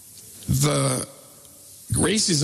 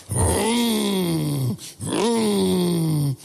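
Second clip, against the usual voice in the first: high, drawn-out engine revving noise; engine vroom; 5 semitones higher than usual. Retold or imitated. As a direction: rev it like a car engine. Imitated engine rev.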